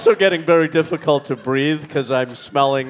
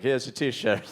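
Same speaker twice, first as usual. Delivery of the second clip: quick Queens accent line; New York accent; 6 semitones lower, 10 dB quieter, slower than usual. Shown as a demonstration. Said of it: "That's my New York accent".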